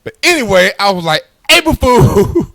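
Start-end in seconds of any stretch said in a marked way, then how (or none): 1.5-2.5 high, loud mock-triumphant call; gleeful prank reveal. Husband revealing the prank to his wife, mock-gleeful shout. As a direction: crow it as a gotcha.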